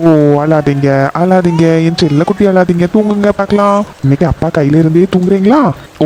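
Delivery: put-on cooing to baby. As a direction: hush the little one lovingly. Father coos to crying baby.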